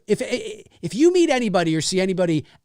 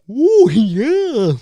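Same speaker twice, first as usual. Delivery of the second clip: dopey Canadian; 8 semitones higher, 6 dB louder than usual. Retold or imitated.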